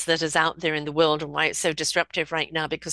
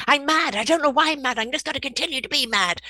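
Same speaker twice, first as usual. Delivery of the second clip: mock angry self-talk; 8 semitones higher than usual. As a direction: play the sulky self who stays mad. Mocking an angry inner voice.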